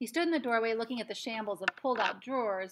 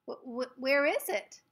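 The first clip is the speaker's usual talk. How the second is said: gasped; 4 semitones higher, 6 dB louder, slower than usual. A narrator's reading. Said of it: "gasped Patrick".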